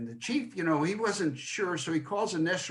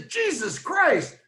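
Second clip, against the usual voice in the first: slow, much higher mock cry of pain; startled outburst; 12 semitones higher, 4 dB louder, much slower than usual. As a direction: drag out the yelp as if jabbed awake. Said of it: "and she says".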